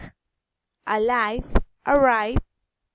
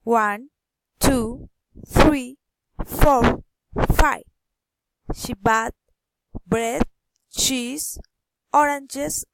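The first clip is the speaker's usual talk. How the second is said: each item lifted separately, ONE through FIVE, BREAD, CHEESE, ORANGES; rising list intonation; slower than usual. Shown as a demonstration. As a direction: count off with small upturns on each, ONE, TWO, THREE. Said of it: "rising intonation".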